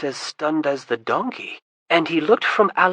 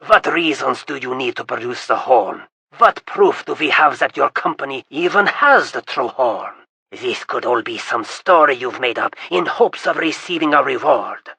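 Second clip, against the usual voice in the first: loud, scornful scolding; angry accusation; 6 dB louder than usual. Acted. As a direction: sneer at the trickster. Kappa accusing the stranger.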